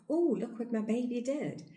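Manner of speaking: high, delighted mom voice; doting mother. Retold or imitated. Mother praising baby rolling over, high and delighted. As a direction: gush with pride at the baby.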